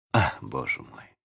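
low, soft sighed words; quiet exasperated sigh. A narrator's reading. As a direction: sigh it out, resigned. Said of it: "вздохнула Венди".

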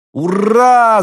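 high, loud cheer; joyful shout. A narrator's reading. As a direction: cheer with all your might. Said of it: "закричали Константин и Евгений".

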